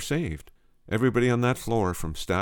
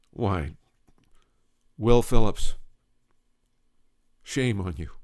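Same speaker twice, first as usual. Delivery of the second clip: playful scolding; 6 dB louder, slower than usual. Acted. Edith chiding the doctor.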